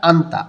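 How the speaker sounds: "আন্তা" with the nieun heard as n; pronunciation demo. Shown as a demonstration. Teacher shows the neighbouring example, demonstrating "আন্তা" with a clear n. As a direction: model "আন্তা", n sounded before the t. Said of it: "নিউন উচ্চারণ করতে হবে".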